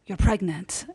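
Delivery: lightly imitated Persian mom; mild Persian-accented mother. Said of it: "Your Persian accent".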